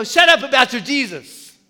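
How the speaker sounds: mild mock scolding; mocking scoffers. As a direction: scoff at the believer. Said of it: "some people say".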